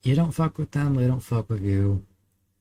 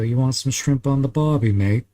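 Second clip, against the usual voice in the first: hammed-up stereotype Australian, a bit higher and louder; mock Australian accent; 5 semitones higher, 4 dB louder than usual. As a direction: play the cliché Aussie tourist line as a joke. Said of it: "I certainly didn't go".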